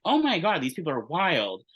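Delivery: excited gasp. Retold or imitated. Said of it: "I was like".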